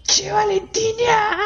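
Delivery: very high, slow squeaky call; squeaky character voice; put-on voice. Shown as a demonstration. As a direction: draw the name out in a tiny high voice. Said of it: "Hacete un par de voces ahí".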